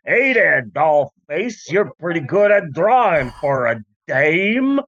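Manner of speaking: hammed-up old-timey fast-talker; 1930s Walt Disney. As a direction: play a thirties gent sweet-talking a girl. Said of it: "That's how every man talked".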